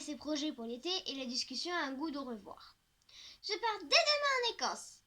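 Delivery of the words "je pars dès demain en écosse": put-on much higher girl's voice; Milly's voice. A narrator's reading. Friend announcing her summer trip, higher girly voice. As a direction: voice a bubbly friend. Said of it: "commence Milly".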